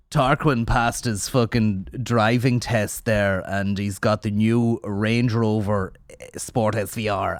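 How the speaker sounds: slow, lightly mocked well-off Dubliner; hint of a boastful Wicklow parent, drawn out; Dublin-outskirts parent. Parent bragging about Tarquin's new car, lightly parodied slow delivery. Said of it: "outskirts of Dublin, Wicklowy".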